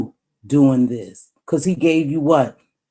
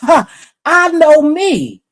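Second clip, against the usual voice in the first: laughing; 11 semitones higher, 6 dB louder, much slower than usual. Real, not acted. Laughs at herself.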